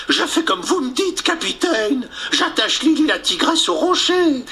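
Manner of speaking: high bumbling sailor voice; simple sailor voice. Acted. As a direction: answer like a dim-witted sailor. Mouche answers the captain.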